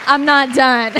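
overwhelmed laugh while still speaking; tearful laughter. Real, not acted. Emotional laugh at applause.

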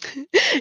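light, brief chuckle; a small soft laugh before answering; short laugh. Real, not acted. Guest amused by host's walnut season question, short laugh.

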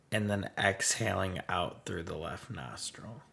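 even, softened breathing-meditation guidance; unhurried meditation teacher, level and gentle; guided meditation. Real, not acted. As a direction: guide listeners calmly through each breath.

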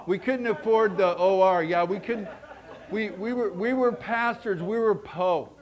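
chuckling through the words; laughing. Real, not acted. Preacher laughing about his poor family. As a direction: laugh along at the poverty joke.

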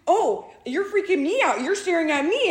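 high, loud imitation of an accusing man; mock bartender retort. Diner imitating the bartender turning it back on her, high and loud.

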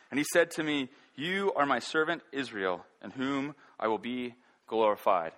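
measured, lifted reading of Isaiah; proclaiming scripture with weight. Acted. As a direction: read it as holy text to the congregation. Preacher reads Isaiah passage aloud.

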